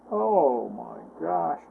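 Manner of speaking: hushed, slow, broken whisper of despair; crying out softly. Acted. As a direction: let the words sink under the weight of three days. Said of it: "he cried".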